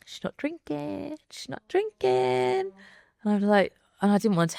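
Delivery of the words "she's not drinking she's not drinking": high, slow singsong tease of the partygoers; mock-gossip chant, rising higher; teasing sing-song. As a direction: drag it out like a knowing party guest. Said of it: "everyone's going".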